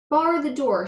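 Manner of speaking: loud high shout; the bug shouting wildly. A narrator's reading. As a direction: yell it, jumping up and down. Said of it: "shouted the bug".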